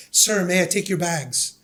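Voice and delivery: slow, lightly voiced British accent, courteous; dignified British accent. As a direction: offer politely in a hint of a British accent. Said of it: "British kind of almost dignified accent".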